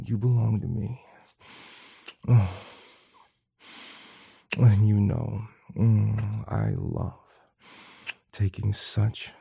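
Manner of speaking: soft tender murmur; sweet nothings. Acted. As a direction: whisper tender reassurances.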